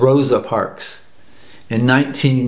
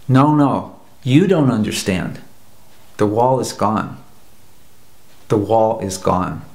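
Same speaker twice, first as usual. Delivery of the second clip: kind and patient; 3 semitones lower than usual. Retold or imitated. East German gently corrects the reporter, kind and patient. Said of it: "being as kind as he could".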